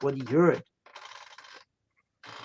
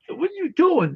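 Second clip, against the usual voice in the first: high squeal; 13 semitones higher than usual. Retold or imitated. Retold quote, pitch jump.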